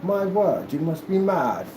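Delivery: mock-formal, measured disbelief and protest; stagey period-gentleman talk; old-time noblemen. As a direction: declaim like offended scholars. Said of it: "Everybody just stop and look at you like".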